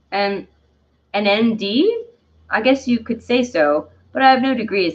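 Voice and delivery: lightly put-on French accent; amateur French accent with questioning lilts; Dandelion's French accent. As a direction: play a self-styled doctor with a bad French accent. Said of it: "I'm gonna stop with the accent".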